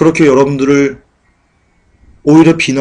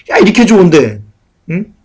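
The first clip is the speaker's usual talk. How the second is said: 야, 이렇게 좋은데 said higher and brighter, 이렇게 leaned on; gleeful mock boast; 5 semitones higher than usual. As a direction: crow it like a smug believer showing off. Mocking prosperity believers' talk.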